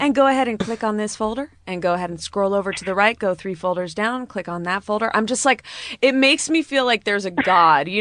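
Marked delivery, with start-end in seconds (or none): 0.0-5.1 lightly mimicked tech support, brisk and fast; imitating a tech support agent reading steps quickly. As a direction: rattle off instructions like a help desk agent. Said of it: "when tech people are like".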